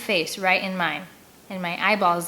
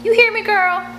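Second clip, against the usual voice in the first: much higher, louder menacing woman; menacing bark; 13 semitones higher, 7 dB louder than usual. Acted. Mary Jo threatens the girl, barking.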